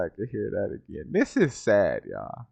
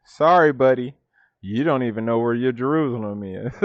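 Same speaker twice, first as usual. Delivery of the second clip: mock quote. Mimicking video man.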